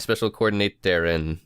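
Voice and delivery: "coordinator, and" run together as one German-sounding word; German-style word ending. Shown as a demonstration. Co-host fixing his job title with an N, German-style "coordinator, and". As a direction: stretch "coordinator" with an N tacked on the end. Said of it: "that sounds German".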